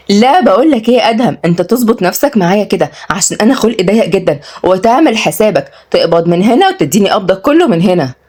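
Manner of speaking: mildly cross warning; very irked. Acted. Fiancée demands his whole salary, irked. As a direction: lay down the law, a touch indignant. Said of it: "واتغاظت وعد جدًا".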